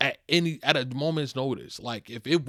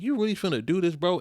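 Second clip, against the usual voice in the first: incredulous; 7 semitones higher, 5 dB louder than usual. Retold or imitated. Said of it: "And I'm like".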